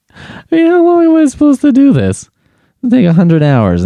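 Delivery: high, strained whine of frustration; exasperated whine. Real, not acted. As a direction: whine it like you can't take another round.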